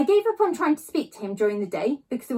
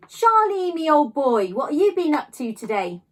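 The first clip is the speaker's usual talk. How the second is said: put-on a beaming dad hailing his boy across the yard; cheerful call; 5 semitones higher, 6 dB louder than usual. A narrator's reading. A proud dad calling out to Charlie, loud and cheery. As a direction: call the name out high and loud, then settle. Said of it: "he cries out".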